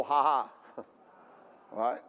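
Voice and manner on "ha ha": demonstrated "ha ha"; a low, put-on laugh for others to copy; mock laugh. Shown as a demonstration. Preacher asking listeners to copy him, mock laugh. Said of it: "Can you go".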